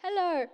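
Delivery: "Hello" ending in an R-like sound; Australian O. Shown as a demonstration. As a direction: colour the last O of "Hello" with R. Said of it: "an R at the end of it".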